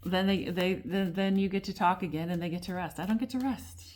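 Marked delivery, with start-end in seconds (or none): 3.0-3.8 high, emphatic protest; emphatic complaint. Real, not acted. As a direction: insist on it, half joking. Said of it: "I'm just saying I'm out of breath".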